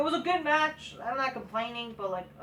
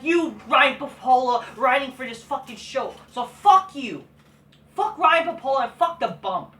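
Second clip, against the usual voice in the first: loud, heated cursing; angry curse; 5 dB louder than usual. Real, not acted. Vlogger cursing out the show writer, loud and angry. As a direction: hurl it at him.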